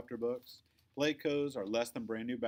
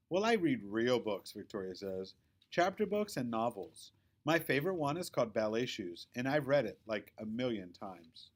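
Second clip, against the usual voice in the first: lightly voiced snooty girl, louder; a hint of superiority, stretched at the end; Victoria bragging; 4 dB louder than usual. Victoria showing off her reading to Quinny, lightly voiced snooty girl. Victoria brags about books.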